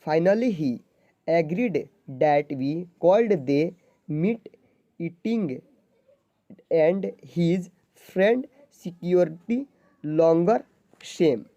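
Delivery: halting, very slow read-aloud; slow word-by-word reading. Shown as a demonstration. Teacher reading a paragraph to zero-level students, very slow and halting. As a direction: sound out each English word slowly for beginners.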